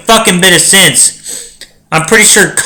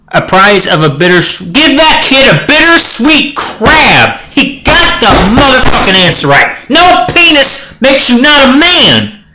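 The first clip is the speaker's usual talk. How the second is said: excited cheer; 6 semitones higher than usual. Real, not acted. Celebrating the riddle answer.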